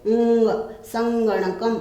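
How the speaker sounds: ऊंग held, then संगणकम with a clear nasal ng before ग; teacher drilling the ng in संगणकम; stressed nasal sound. Shown as a demonstration. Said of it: "इसका उच्चारण विशेष रूप से".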